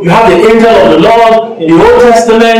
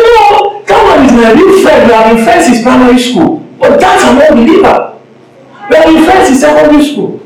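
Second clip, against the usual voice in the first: eagerly defending a friend, pitched higher; 4 semitones higher than usual. Retold or imitated. Preacher voicing a churchgoer defending an unbelieving friend, pitched higher. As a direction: insist he is a true friend. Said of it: "I say".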